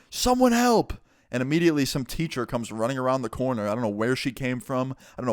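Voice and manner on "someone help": high-pitched mock yell; retold yell for help. Student calling down the hall for help, yelling. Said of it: "and I yell out".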